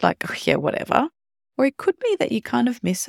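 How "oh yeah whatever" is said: bored, offhand "whatever"; disinterested brush-off. Pretend. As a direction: shrug it off like you couldn't care less. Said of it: "kind of disinterested".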